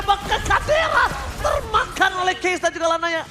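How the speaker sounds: excited shout. Real, not acted. Kill call in fight. (teriakan bersemangat)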